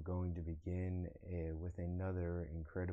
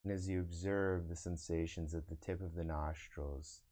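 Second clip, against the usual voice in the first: guided meditation. Acted. Meditation teacher guiding online viewers to observe the breath, guided meditation. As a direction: lead them into breath awareness, unhurried. Leads a meditation after chatting.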